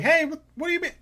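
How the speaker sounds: high, loud complaining civilians; high indignant shout; angry civilian shouts. Acted. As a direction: yell it out like waiting people fed up. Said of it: "they're shouting".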